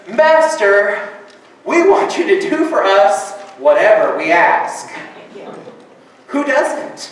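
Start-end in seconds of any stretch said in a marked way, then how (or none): 0.1-4.9 disciples demanding. Retold or imitated. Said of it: "What do they say?".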